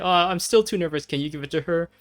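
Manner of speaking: nervous suitor. Acted. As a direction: play him too shy to do it himself. Same nervous suitor asks again.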